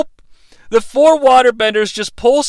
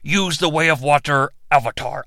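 dragon god command; 5 semitones lower, 6 dB quieter than usual. Pretend. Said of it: "I said".

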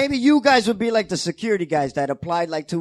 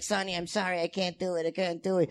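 imitated meek apology; 8 dB quieter than usual. Acted movie quote, apologetic.

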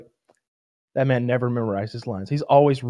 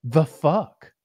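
incredulous crew voice, pitch jumping high; squeaky, baffled complaint to a star; mock disbelief; 3 semitones higher, slower than usual. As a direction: imitate exasperated filmmakers. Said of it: "they're just like".

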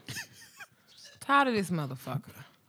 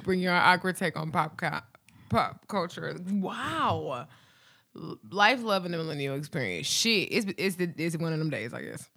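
normal talking voice

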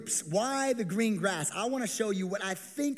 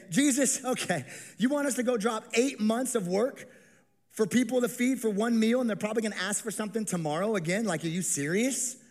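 sarcastic; 3 semitones higher than usual. Acted. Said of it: "You feel the sarcasm?".

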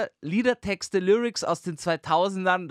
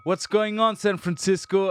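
slightly raised rapper crowd call; stage greeting; 3 semitones higher, 4 dB louder than usual. Pretend. Hip-hop star greets crowd.

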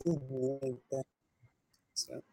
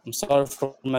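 bad connection; faster than usual. Real, not acted. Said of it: "went out again".

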